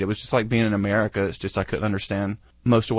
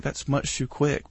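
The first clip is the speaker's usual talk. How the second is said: slow, higher imitation of a co-host; the Bean; 4 semitones higher, 4 dB quieter, slower than usual. Host quoting co-host on the short segment, lightly mimicked. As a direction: lightly mimic a co-host's complaint, drawn out. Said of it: "The Bean's always like".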